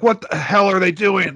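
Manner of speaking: dad flipping out over a parking spot; imitating angry dad. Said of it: "he'll flip out and just be like".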